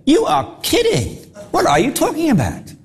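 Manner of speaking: high, disbelieving cry of you must be joking; mock the crowd's shocked disbelief; incredulous. Crowd gasping at Jesus' words, high disbelief. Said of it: "They probably stood there saying".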